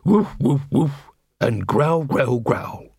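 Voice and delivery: woof and growl read out flatly, unimpressed; bored barking words. A narrator's reading. Dog to Angua, barking words in a bored way. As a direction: say the barks like a bored chore. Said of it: "in a bored way".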